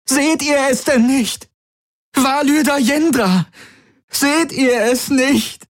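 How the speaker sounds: high frantic pleading scream, slowing at end; desperate struggling cries. A narrator's reading. Kirai struggling against Tari, frantic high screams. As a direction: fight off the guards, screaming.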